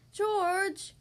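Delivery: put-on high, exasperated child; annoyed sigh. A narrator's reading. Peppa annoyed with little brother George, high exasperated sigh. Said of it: "she would sigh".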